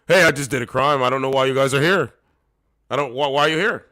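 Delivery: loud goofy thief voice; redoing the thief impression properly for viewers; mock clueless criminal, done right. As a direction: play the innocent criminal fully. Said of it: "this is crazy".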